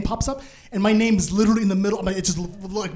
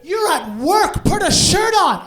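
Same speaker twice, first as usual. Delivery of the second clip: higher, louder mock yell; mock scream; 10 semitones higher, 5 dB louder, slower than usual. HR manager yelling at shirtless employee, mock scream. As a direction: scold him loudly. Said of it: "she starts screaming".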